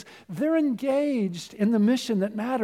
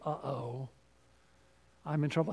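mock worry; 4 semitones lower, 8 dB quieter than usual. Mock worried inner voice.

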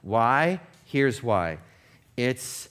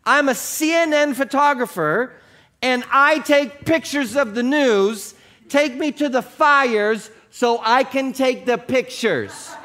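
exploding in anger; 12 semitones higher, 8 dB louder than usual. A narrator's reading. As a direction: blow up at the pilot. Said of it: "this time the photographer exploded".

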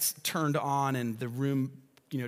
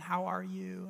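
softer, hushed hospital voice; nurses speaking softly; 7 semitones higher, 5 dB quieter than usual. Retold or imitated. Pastor imitates soft-spoken birthing room nurses, hushed. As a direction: hush it like a nurse at the bedside. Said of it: "nurses speaking really softly".

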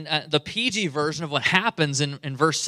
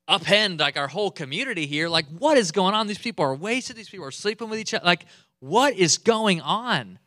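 loud, higher incredulous rant; exasperated Moses; 4 semitones higher, 5 dB louder than usual. Retold or imitated. Moses scolding the people's revelry, loud disbelief. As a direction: demand what is going on. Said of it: "He's like".

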